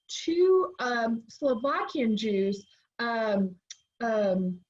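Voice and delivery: short of breath, gasping between words; catching breath after exertion. Real, not acted. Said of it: "catching my breath here".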